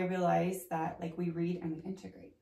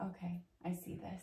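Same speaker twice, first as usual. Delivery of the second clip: hushed whisper of sudden realization; awed whisper; 9 dB quieter than usual. Retold or imitated. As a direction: breathe it like a secret just discovered. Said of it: "I was like".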